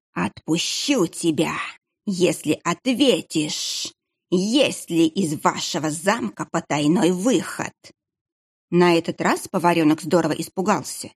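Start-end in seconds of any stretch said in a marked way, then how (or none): 0.1-7.7 slow menacing monk. Acted. Monk questions the boy about the secret exit, slow and menacing. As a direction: let each word creep out slowly.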